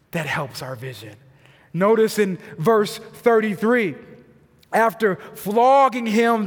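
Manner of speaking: normal talking voice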